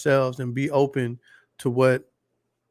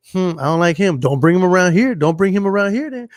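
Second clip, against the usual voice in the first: imitating disapproving friends, louder and higher as it builds; mock disapproval; 3 semitones higher, 4 dB louder than usual. Friends rejecting her boyfriend, imitated disapproval. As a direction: lay down the law as the fed-up friend.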